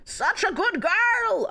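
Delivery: high, slow teasing praise; mock praise. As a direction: purr it like a smug lover.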